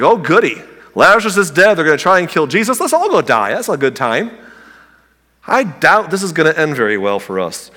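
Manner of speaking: dry mock enthusiasm, lightly voiced; sarcastic Thomas. Thomas to fellow disciples about going to die, lightly sarcastic. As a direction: play the cheerfulness as pure sarcasm. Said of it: "spiritual gift of sarcasm".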